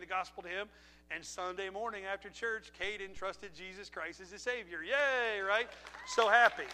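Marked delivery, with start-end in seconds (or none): 4.8-6.7 much louder celebratory yay; joyful shout of yay; excited cheer. Real, not acted. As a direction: burst out cheering the good news. Celebrating salvation news.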